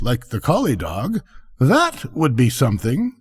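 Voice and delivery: lightly voiced duck lady; practical duck. Duck telling the rocket about useful work, unimpressed. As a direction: reason it out, a little unimpressed.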